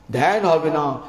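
rising preaching fervour ending in a shout; building preacher's cry. Acted. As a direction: hammer each "হবে না" harder until you cry out.

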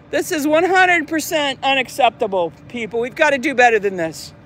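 lightly played outraged customer; a touch of hammed-up official disapproval; mock indignant complainer. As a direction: pretend to summon staff over a trivial fault. Mock complaint about the landscaping.

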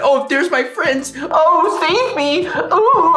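high, hammed-up plea for rescue; playful high wailing; mock cry for help. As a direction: call out to friends in pretend panic. Pretends to beg friends for rescue.

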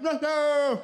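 put-on a boy spotting his friend, shouting with joy; happy call. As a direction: yell the name in glee. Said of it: "he's like".

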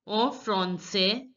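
en français as "on fron-say", slow; nasal an sound. Shown as a demonstration. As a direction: slowly model français with "an" as "on". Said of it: "A N is pronounced as en".

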